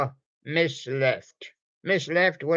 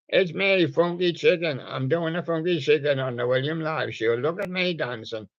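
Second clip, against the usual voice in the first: chicken puppet voice; 3 semitones higher than usual. Acted. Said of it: "and there he goes".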